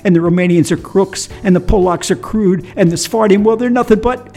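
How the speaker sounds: building tirade. Retold or imitated. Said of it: "he continued his tirade".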